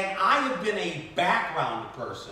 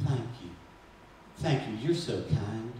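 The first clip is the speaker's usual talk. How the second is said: soft, low murmur of thanks; retold whispered reply; 9 semitones lower, 7 dB quieter than usual. Grieving actress thanking the extra who comforts her, retold whisper. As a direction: answer in a hushed, lowered voice. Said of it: "she whispered back".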